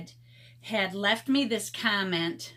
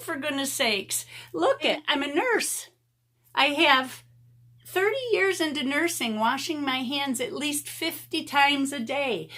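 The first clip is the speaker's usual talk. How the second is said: fired-up defiance; 6 semitones higher than usual. Real, not acted. Defiant rant about her hands.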